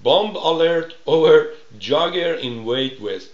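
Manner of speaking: reads the English headline slowly, word by word. Shown as a demonstration. Host reading an English news headline to listeners, slowly. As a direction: spell out the headline at half speed.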